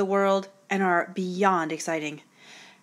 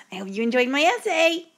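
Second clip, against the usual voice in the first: dull student voice; 5 semitones higher than usual. Retold or imitated. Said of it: "he talks like this".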